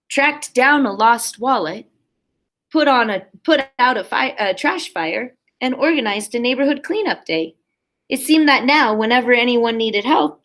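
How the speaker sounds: put-on lively read-aloud for a class of kids; animated picture-book narration; storybook reading. A narrator's reading. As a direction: read it like story time on the rug. Teacher reads picture book aloud.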